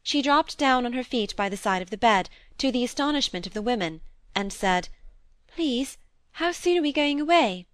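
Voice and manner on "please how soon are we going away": put-on high, timid child voice; a lost child asking to go home; anxious little girl. A narrator's reading. Molly waking and asking the housemaids, timid and high.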